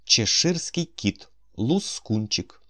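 relishing the word "лускунчик", drawn out; savouring the words. A narrator's reading. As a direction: roll "лускунчик" slowly, enjoying every sound. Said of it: "Просто слово, приємно вимовляти".

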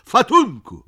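high, loud shriek; shrill cry. A narrator's reading. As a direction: cry out at the top of the voice. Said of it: "krzyknęła Topcia". (wysoki, głośny krzyk)

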